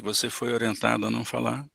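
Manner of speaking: quiet, gentle echo of his words; calm soft mirroring. Shown as a demonstration. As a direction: repeat it back softly, no irony. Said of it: "sem ironia nenhuma e com calma".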